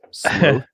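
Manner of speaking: sloth said as SLOWTH, with a long o. Shown as a demonstration. Explaining own pronunciation, sloth with a long o. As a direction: make sloth rhyme with growth. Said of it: "which is why I pronounce".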